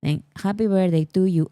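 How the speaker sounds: lightly sung happy birthday in thick Spanish-accented English; strong Spanish accent. Shown as a demonstration. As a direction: hum through it in bad, heavily accented English. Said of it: "but with very strong accent".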